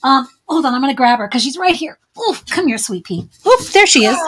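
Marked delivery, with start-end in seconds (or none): 2.2-4.2 sweet-talking a pet; cooing to the dog. Real, not acted. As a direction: coax the little dog over gently. Calling the dog to her.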